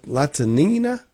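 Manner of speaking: high-pitched. Real, not acted. Host stumbling over a gymnast's surname, high-pitched. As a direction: voice rising high on the name. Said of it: "say it in a high pitch".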